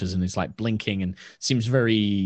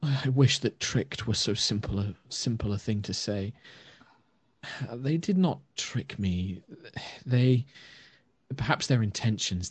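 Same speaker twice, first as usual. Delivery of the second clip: put-on ashamed old elf; 3 dB quieter than usual. Elder elf to the party, lightly voiced and remorseful. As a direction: confess it gently, weighed down.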